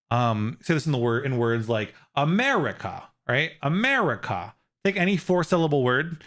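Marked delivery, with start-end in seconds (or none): 2.1-3.0 "America" as a-MER-ica; third-to-last syllable stressed. Shown as a demonstration. Streamer giving chat an example, "America" stressed on MER. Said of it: "is the third to last syllable". 3.6-4.5 "America" as a-MER-ica; third-to-last syllable stressed. Shown as a demonstration. Streamer giving chat an example, "America" stressed on MER. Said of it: "is the third to last syllable".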